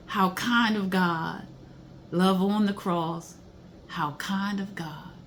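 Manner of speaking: slow, tender reading of song words; reverent lyric reading. Acted. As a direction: let each line land slowly, like a prayer. Reads second verse with feeling.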